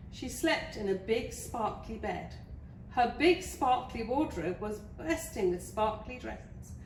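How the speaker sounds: lively storybook narration; story reading. Acted. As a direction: read it to small children with clear emphasis. Reads a picture book to children.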